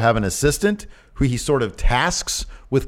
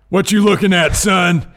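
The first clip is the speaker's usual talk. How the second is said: gruff Texan tough-guy bark, raised and higher; hard aggressive working-class bark; 9 semitones higher, 5 dB louder, slower than usual. Pretend. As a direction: bark it like a brawler in clown makeup. Stone Cold as a clown.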